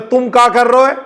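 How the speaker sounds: blunt Braj-accented Hindi question, rising at the end. Shown as a demonstration. Teacher showing Braj-tinged Khari Hindi to students, Braj accent. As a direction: ask it in rustic Braj dialect. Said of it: "लेकिन उसका जो accent है".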